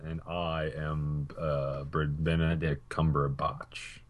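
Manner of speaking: put-on slow, soft, halting British accent; a bad British accent, stumbling over the name; mock British accent. Co-host insists on his poor impression, mock British accent. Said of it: "this is my British accent".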